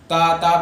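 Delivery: light, thin t in تا; wrong light taa. Shown as a demonstration. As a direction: say تا as plain "taa", unrounded. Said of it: "لیکن غلط".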